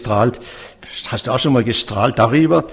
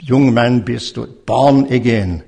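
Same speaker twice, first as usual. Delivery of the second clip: zurufen; 3 dB louder than usual. Retold or imitated. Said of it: "rief ihm zu".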